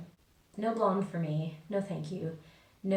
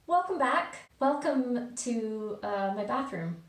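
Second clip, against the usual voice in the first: bathroom echo; 3 semitones higher than usual. Real, not acted. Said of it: "sorry about the echoey voices".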